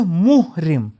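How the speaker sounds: محرم said as muhrim, for one in ihram; third of three words. Shown as a demonstration. Teacher contrasting three look-alike words, saying muhrim. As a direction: say محرم as muh-rim, ending on i. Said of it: "ویسے یہ تین لفظ ہے".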